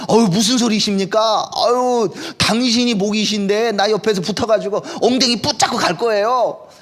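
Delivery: a hint of a clingy, pleading follower; pleading Lot. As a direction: act out Lot protesting and clinging on. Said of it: "그렇게 말을 해야 되는데".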